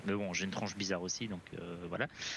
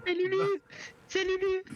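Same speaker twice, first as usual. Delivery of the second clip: high, loud squeal; excited squeal; 5 dB louder than usual. Real, not acted. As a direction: shriek it with glee.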